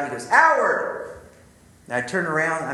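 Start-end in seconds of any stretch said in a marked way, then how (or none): 0.3-1.1 a high, loud call across the parking lot; yelling a name. Retold or imitated. Mentor calling Howard back from his car, a high loud shout. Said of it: "he yells out".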